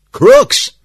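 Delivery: high, full shout of accusation; loud declaration. A narrator's reading. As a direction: cry out the alarm at the top of your voice. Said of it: "he declared".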